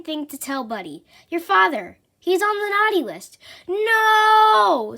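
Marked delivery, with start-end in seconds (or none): 1.3-3.4 Santa's grave news. Acted. Santa reveals bad news. 3.7-5.0 a sudden high shocked cry. Acted. Buddy shocked to hear his father is naughty, crying out.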